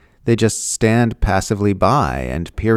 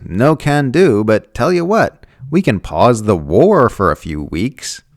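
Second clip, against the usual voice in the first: mock breezy brush-off; 4 semitones higher, 4 dB louder than usual. Mocking Israel's line to Hamas, breezy and higher. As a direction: toss off the refusal as a cheery non-answer. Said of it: "and Israel goes".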